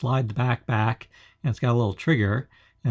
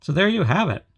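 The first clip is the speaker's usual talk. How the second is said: Heisenberg voice changer; 3 semitones higher than usual. Real, not acted. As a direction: speak through a voice changer helmet. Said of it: "Voice changer activated".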